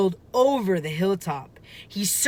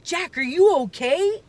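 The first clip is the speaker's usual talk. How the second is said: higher, louder call up to Jack; 10 semitones higher, 3 dB louder than usual. A narrator's reading. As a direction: call out to him from the treehouse. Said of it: "Annie called".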